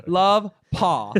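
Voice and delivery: high, cutesy dog signing a note; sweet little dog voice. Retold or imitated. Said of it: "He's like".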